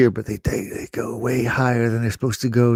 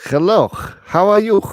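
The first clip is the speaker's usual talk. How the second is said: high, loud imitation of a student greeting "Hello, how are you?"; imitating students; 11 semitones higher, 7 dB louder than usual. Students greeting their new teacher, voiced high and loud. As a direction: chirp it like an eager student. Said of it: "they were like".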